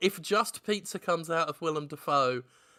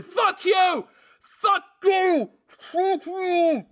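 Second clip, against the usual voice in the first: muffled yelling; 11 semitones higher, 5 dB louder, much slower than usual. Acted. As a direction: shout fading behind muffle. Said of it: "more and more muffled".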